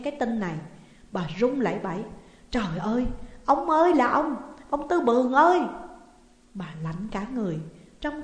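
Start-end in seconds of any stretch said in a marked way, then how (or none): 2.5-5.6 loud, high wail of reproach; anguished outcry. A narrator's reading. Wife learns her child was sold, anguished outcry. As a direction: build into a horrified cry at him.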